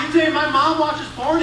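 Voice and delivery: acted-out affronted question; indignant challenge. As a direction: challenge him in disbelief. Dad challenges son's accusation.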